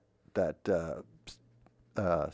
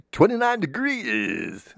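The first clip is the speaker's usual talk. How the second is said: radio jingle voice; 12 semitones higher, 5 dB louder, slower than usual. Shown as a demonstration. Sample commercial radio voice-over line.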